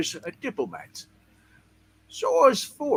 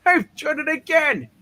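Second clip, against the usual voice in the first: triumphant; 3 semitones higher, 4 dB louder than usual. Acted. Triumphant experiment.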